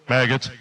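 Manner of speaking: Maggots. drawn out with relish; savoring the word. Shown as a demonstration. Teacher to class, savoring the gross word. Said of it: "words that sounds like it looks".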